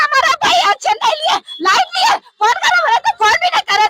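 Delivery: high-pitched tearful shouting; distraught protest. Real, not acted. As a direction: cry out in anguished protest. Sister protests police inaction over brother. (रोते हुए ऊँची आवाज़ में गुहार)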